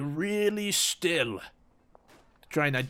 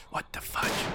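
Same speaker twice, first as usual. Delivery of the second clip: confused whisper; 6 dB quieter than usual. Real, not acted.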